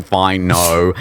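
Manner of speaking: mumbled, grudging no; a hint of a sulky child; reluctant. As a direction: admit it like a caught kid. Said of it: "really reluctantly saying".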